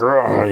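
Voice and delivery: rough effortful grunt, acted out; mock grunt; imitated grunt. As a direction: grunt as if lunging at someone. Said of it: "he grunts".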